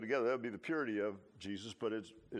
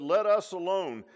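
loud, high preacher's cry of the demon; 6 semitones higher, 9 dB louder than usual. Retold or imitated. Preacher voicing the demon crying out at Jesus, loud. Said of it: "and he cried out".

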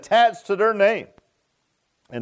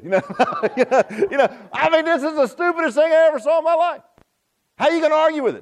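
higher, laughing through the words; can't keep a straight face at the absurdity; laughing incredulously; 9 semitones higher than usual. Real, not acted. Preacher to congregation, laughing in disbelief. Laughing at dog whisperer idea.

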